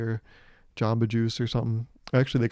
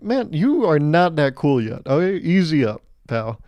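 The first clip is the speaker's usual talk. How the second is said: dismissive; 3 semitones higher, 4 dB louder than usual. Retold or imitated. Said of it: "I'm like".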